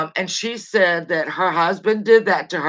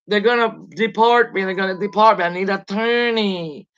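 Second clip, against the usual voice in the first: mildly panicked, imitated wail; mock panic. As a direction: imitate her pleading, stretching the last word. Imitating woman panicking outside on video.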